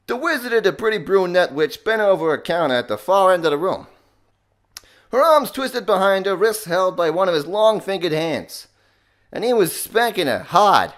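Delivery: loud, high, strained Boston-accent reading; Joey Wheeler. Shown as a demonstration. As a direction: read it out in a pushed-up Boston accent. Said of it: "Joey Wheeler is just a Boston accent".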